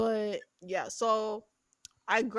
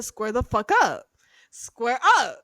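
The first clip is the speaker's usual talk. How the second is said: put-on louder tough-girl dare; mock challenge; 7 dB louder than usual. Ellie daring the witch in her room, loud. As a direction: square up like a brawler. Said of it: "and I said".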